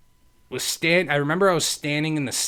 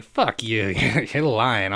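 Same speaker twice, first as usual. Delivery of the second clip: re-enacted laughing disbelief; chuckling through the accusation; slower than usual. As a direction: laugh it off, not believing a word. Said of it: "I'm laughing".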